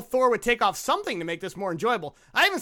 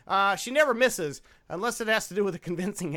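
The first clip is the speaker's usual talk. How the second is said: David Caruso delivery. Retold or imitated. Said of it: "I'm gonna get a little David Caruso on this one".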